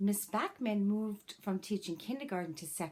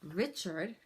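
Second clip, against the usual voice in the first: put-on gentle, expressive read-aloud for children; story narration. A narrator's reading. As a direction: read it like a teacher sharing a picture book with the class. Reads a picture book to class.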